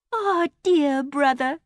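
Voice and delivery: high, slow sweet coo. A narrator's reading. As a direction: coo it piously. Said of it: "cooed Emily".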